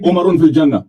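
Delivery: عمرن with an added -un ending; quoted misreading. Retold or imitated. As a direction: imitate the faulty recitation, saying عمرن as Umar-un. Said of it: "الف بے نہیں آتا حدیث پڑھنے کا". (عمرن میں غلط نون کی نقل)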